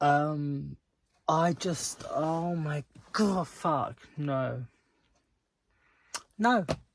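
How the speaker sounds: very slow, drawn-out, pissed-off angry venting. Reader giving a book update at page 325: angry. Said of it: "I am so pissed off right now".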